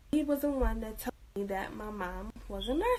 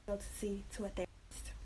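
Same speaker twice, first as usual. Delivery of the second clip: whispered confession; 10 dB quieter, faster than usual. Retold or imitated. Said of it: "I'm like".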